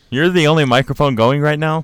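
loud, high surprised question. Real, not acted. Surprised question, much louder.

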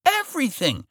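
high, loud screaming villain. Acted. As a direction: shriek it like a furious villain. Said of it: "he was shouting at her".

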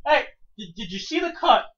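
hammed-up loud call to the referee; mock shout at referee. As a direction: yell it out like a heckler. Mocking the oblivious referee.

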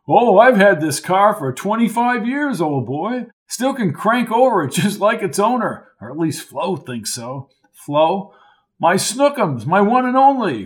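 lightly voiced old Lark, high and jolly; a hint of a jovial old-timer calling him old boy; hearty old college man. Lark's character voice.

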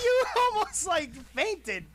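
surprised. Real, not acted. Teasing cohost, high.

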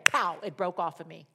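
normal talking voice

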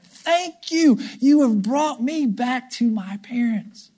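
lightly voiced, grateful little girl; high, relieved thanks from a found child; lost girl's thanks. Lost daughter thanking the British couple, lightly voiced. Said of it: "from Samantha's viewpoint".

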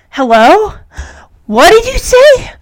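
high, drawn-out disbelieving question; astonished. Acted. Punky hears the radio answer, astonished. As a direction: shoot the pitch up as if you can't believe it.

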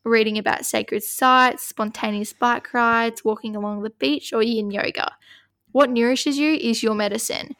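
measured oracle card reading; steady reading-aloud voice. Acted. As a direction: read the card out evenly.

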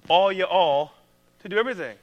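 country Southern. Retold or imitated. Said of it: "That's my country theme".

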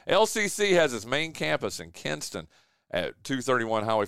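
steady radio sponsor read. Acted. Host thanking the college sponsor, ad read. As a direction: read it out as a local radio spot.

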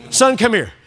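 casual fatherly summons, run together; easygoing dad call. Retold or imitated. Dad calling his son when all is good, easygoing. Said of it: "that's all good".

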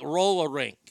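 Boston-accented "roll a rink", second R dropped. Shown as a demonstration. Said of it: "Unless the R is like".

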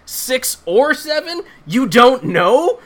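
incredulous. Real, not acted. Mocking the sheriff's vague count.

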